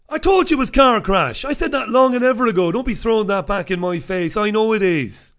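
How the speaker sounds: high, loud mock protest; mock indignation. Host defending his car-crash show to viewers, mock indignant.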